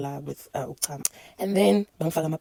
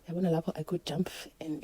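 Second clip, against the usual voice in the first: whisper; 6 dB quieter than usual. Real, not acted. Joy at nine centimetres.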